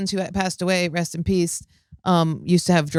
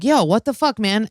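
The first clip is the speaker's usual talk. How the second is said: retold indignant protest. Seventh grader protesting to the teacher who hung up, mock indignant.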